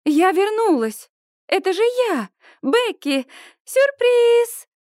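high, eager calling out; excited surprise. A narrator's reading. Becky calling a surprise to her parents. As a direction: announce yourself with delight.

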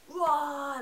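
mock metal roar of awe; imitated wail. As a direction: burst out a big rock "wah". Imitates the cover artwork's wild vibe.

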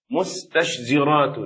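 مستشزرات said slowly, each consonant of the cluster sounded; heavy pronunciation. Shown as a demonstration. Teacher giving a hard-to-say example, مستشزرات slow and careful. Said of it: "فهي ثقيلة في نطقها".

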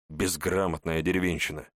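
plain reading voice

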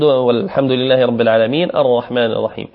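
fast, plain run through the verses; quick run-through. Shown as a demonstration. Teacher quickly runs the verses before reciting again. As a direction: rattle off the verses to set up the repeat. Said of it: "نعيد الآيتين".

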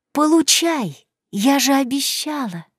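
venomous whisper. A narrator's reading. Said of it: "ядовито прошептав".

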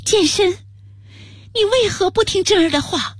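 high, slow and sorrowful; quiet grief. Acted. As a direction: hold back the grief as you plead. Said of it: "难掩悲痛地说道".

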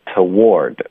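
"toward" with weak t, full war and a final d; demonstrating toward. Shown as a demonstration. Teacher assembles the word for students, model "toward". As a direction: put "toward" together, weight on the war part. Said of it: "再加一个的".

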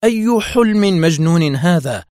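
incredulous, heated protest; sharp. A narrator's reading. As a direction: challenge it heatedly. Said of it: "ثم استطردت في حدة".

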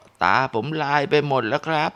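fading voice of a crushed patient; dying man. Retold or imitated. Badly injured man speaks faintly.

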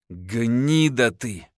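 very slow, spat with hatred; hateful. A narrator's reading. Wife to husband after the blow, hateful. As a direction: drag each word with loathing. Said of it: "с ненавистью в голосе сказала жена".

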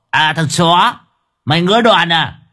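he can't believe the nerve; stunned anger. Acted. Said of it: "Tên chọc đầu sửng sốt". (giọng côn đồ sửng sốt tức giận)

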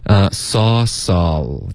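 normal talking voice

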